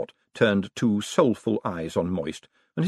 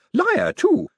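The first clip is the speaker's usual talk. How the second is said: high, louder cheerful jab; cheerful old lady; 5 dB louder than usual. A narrator's reading. Old lady cheerfully calling Moist a liar, high and loud. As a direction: call him liar with glee. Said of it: "said Missus Lavish cheerfully".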